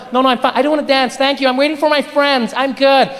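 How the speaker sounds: hurried, insistent mock refusal; polite refusal. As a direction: act a woman fending off a creep. Acted woman refusing a creep.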